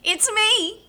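high cackly witch voice. Pretend. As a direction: play a high, silly witch. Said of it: "my witch voice changes".

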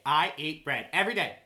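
emphatic mock commercial testimonial; Oprah. Comedian parodying a bread-loving advert, hammed-up impression. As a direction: declare it like a delighted celebrity endorser. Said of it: "She's like".

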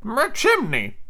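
high henchman exclamation; surprised high-pitched underling; Smee. Acted. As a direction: echo it in a high sidekick voice. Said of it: "I'm adding Smee's voice".

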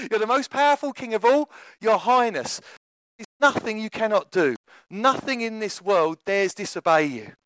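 mildly hammed-up courtly praise; flattery. Courtiers praising their all-powerful king, mild flattery. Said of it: "continually full of flattery".

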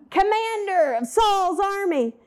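commander of Saul's army said high and sneering; title thrown back as a high sarcastic jeer; mocking taunt. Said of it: "and he yells".

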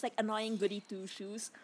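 whispered snark; mocking whisper. Real, not acted. Co-host mocking the annoying character, in a whisper. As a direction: hiss it like a catty aside.

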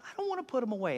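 soft mock pleading; upset. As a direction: imitate a wife quietly protesting. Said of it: "she gets so upset about it".

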